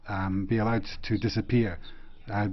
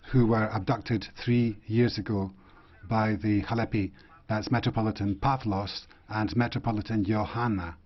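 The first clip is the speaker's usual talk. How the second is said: measured, with pauses between phrases; spaced out phrase by phrase for the interpreters; deliberately slow. Real, not acted. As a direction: say it slowly enough to be translated. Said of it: "going to say this slowly".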